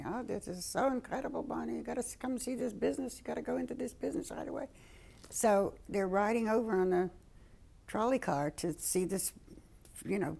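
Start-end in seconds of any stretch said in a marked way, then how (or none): 0.1-4.7 put-on high Jewish grandmother accent. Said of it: "She had a Jewish accent".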